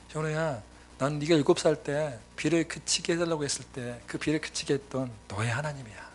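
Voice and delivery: soft, low, gentle reminder; tender voice of God. Retold or imitated. God gently reminding the pastor of his childhood, tender. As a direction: speak softly like a loving father. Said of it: "기억나게 하셨어요".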